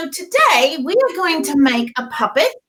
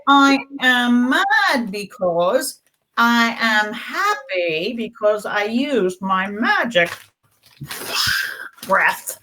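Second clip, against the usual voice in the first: slow, drawn-out model sentence; lightly slowed teacher demo; slow modelled feelings; 2 semitones lower, slower than usual. Shown as a demonstration. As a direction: spell out each feeling slowly for children. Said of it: "use our words and say".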